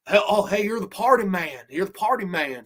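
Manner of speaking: lightly mocked Southern accent; horrible Southern accent. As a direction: imitate a bad Southern accent. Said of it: "trying to get this horrible Southern accent".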